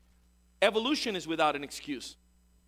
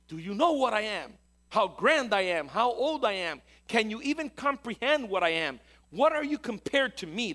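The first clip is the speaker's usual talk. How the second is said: booming, higher and louder boast; universe screaming; 4 semitones higher, 5 dB louder than usual. Retold or imitated. The universe screaming in your face, a booming boast. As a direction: shout it down like the vast universe. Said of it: "the universe screams in your face".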